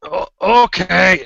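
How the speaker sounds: high, loud, drawn-out okay; stammered, stretched-out agreement; slow-witted helper character. Acted. Same character agrees to the errand.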